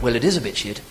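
mildly put-on English accent; hopeful British understatement; British optimism. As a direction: look on the bright side, in a British accent. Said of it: "rare display of British optimism".

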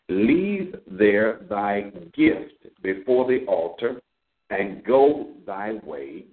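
slow, measured reading of the verses; scripture reading. Acted. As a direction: read each phrase slowly, as holy text. Rereads verse twenty-four.

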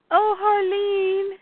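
high, drawn-out acted near-cry; slow, plaintive retold wail; tearful tenderness. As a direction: sigh the name as if about to cry. Ivy moved by Harley's concern.

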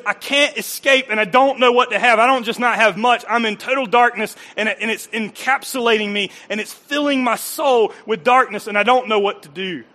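mild hammed-up anguish; despairing inner voice. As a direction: cry out as someone trapped. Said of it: "this thing that goes".

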